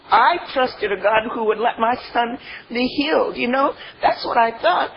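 real tears catching in the voice; tearful. Real, not acted. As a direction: voice breaking while remembering her son. Grieving her son's death.

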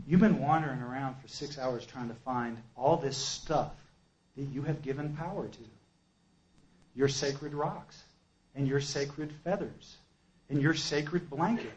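soft, measured voice of guidance; quietly pointing out the truth; calm inner voice. Retold or imitated. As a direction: imitate the clear, calm voice, unhurried on each sacred thing. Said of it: "calm, comes into my head".

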